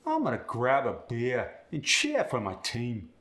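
beer and cheer said as "bee-uh", "chee-uh"; Cockney, R dropped with an UH; Cockney ear sound. Shown as a demonstration. Student demos the Cockney ear sound. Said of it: "drop the R, but add an uh".

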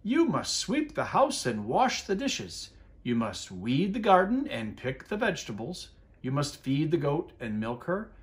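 lightly voiced old witch giving orders; a hint of a stern grandma laying down chores; bossy old witch. Witch telling Big Anthony his chores, light bossy voice. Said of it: "said Stregonona".

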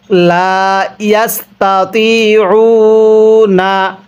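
slow, drawn-out Arabic recitation; ধীরে টেনে তিলাওয়াত; Quran recitation. Shown as a demonstration. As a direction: chant it slowly for the class to follow. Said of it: "আমার সাথে পড়ুন".

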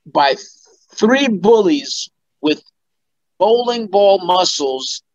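slow, deliberate read-out; measured recital with pauses; reading out script. Retold or imitated. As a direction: spell it out slowly, phrase by phrase. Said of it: "he said, script descriptions".

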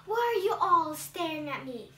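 indignant outcry. Acted. Blind child confronts the crowd.

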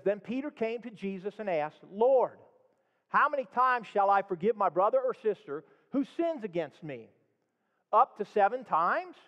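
scripture read aloud with emphasis. Acted. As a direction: read the verses to the congregation. Reads the Matthew parable aloud.

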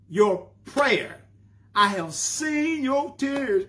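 slow, lifted, solemn divine voice; voice of the Lord. Acted. Preacher voicing God to Hezekiah, slow and exalted. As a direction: proclaim it slowly as God.

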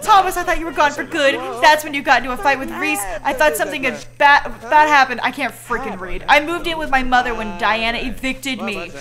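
reading character lines with a touch of drama; lightly voiced dialogue. Streamer voicing two game characters reconciling, lightly dramatic. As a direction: act out the friends' reunion lightly.

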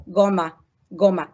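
"جوما" said with hard g, "go-ma"; hard g demo. Shown as a demonstration. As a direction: model "جوما" twice with a hard g. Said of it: "ولو جه بعده او جو".

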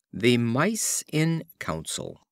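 slow, measured title announcement; title read. A narrator's reading. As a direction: set the title apart, slowly. Reads fable titles slowly.

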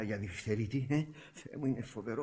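soft, troubled murmur; hushed dread. Acted. Brother learns it may be diphtheria, quiet and dismayed. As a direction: say it softly, taking in bad news.

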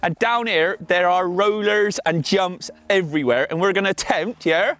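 put-on Somerset accent. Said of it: "throwing down some Somerset accent".

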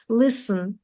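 "listen" said as LIS-n, no t; teacher demonstrating "listen" without t; silent T. Shown as a demonstration. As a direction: drop the t in "listen". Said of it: "Т не читається".

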